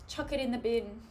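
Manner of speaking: badly faked Australian accent. Streamer imitating five-year-olds she mentioned, shaky-attempt Australian accent. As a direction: have a go at an Aussie accent. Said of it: "My Australian accent's really bad".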